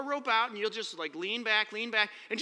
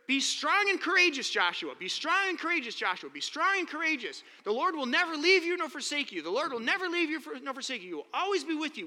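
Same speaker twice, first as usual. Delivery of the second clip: raised, ringing proclamation of the charge; booming charge; 3 semitones higher than usual. Retold or imitated. Preacher booming God's words to Joshua, raised and ringing. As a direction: proclaim it like a preacher rallying the room.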